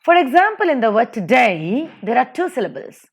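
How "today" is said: "today" with DAY stressed; light "to", stressed "day" in "today"; stress on second syllable. Shown as a demonstration. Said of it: "second syllable day is stressed".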